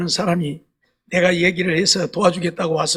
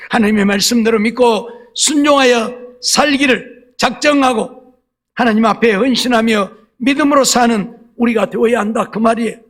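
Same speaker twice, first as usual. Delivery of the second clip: measured, emphatic pulpit delivery; earnest preaching exhortation; 4 semitones higher, 4 dB louder than usual. Real, not acted. Preacher urging the congregation to obey, emphatic preaching. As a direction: urge the congregation phrase by phrase.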